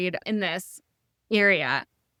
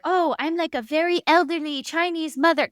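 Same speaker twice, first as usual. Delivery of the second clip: higher, put-on voice of a fragile elderly mother; frail old mother act; 9 semitones higher, 3 dB louder than usual. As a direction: play up being old and helpless. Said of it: "she's like".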